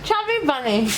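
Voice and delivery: high and mushy through a mouthful; cheeks stuffed full. Real, not acted. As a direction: talk around the marshmallows. Chubby Bunny marshmallow challenge.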